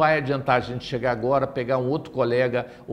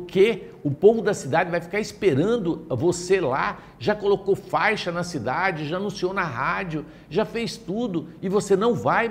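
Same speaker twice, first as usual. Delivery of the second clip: indignant disbelief; 5 semitones higher than usual. Retold or imitated. Friend scolds him on phone.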